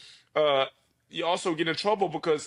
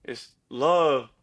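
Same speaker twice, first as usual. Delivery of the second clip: motivational speech; 2 semitones lower than usual. Pretend. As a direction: speak like a coach lifting up a friend. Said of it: "give me the best motivational speech".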